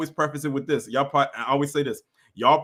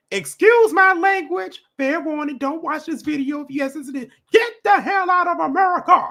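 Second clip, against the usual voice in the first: mock whiny commentator voice, higher and louder; 14 semitones higher, 5 dB louder than usual. Imitating the person being criticized before playing his video: imitating a whiny commentator. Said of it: "I can hear him right now when he says".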